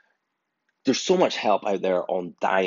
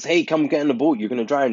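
urgent call; 6 semitones higher, 5 dB louder than usual. Retold or imitated. Boat rescuer calls out to man.

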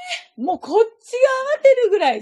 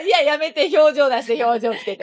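laughing protest; 5 dB louder than usual. Real, not acted.

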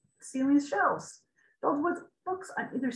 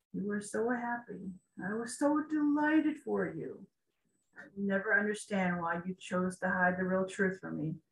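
tearful king; 4 dB quieter than usual. Acted. Tearful king speaks to memory.

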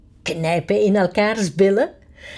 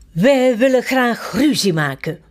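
cheerful; 3 semitones higher than usual. Acted. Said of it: "zegt de koning opgewekt".

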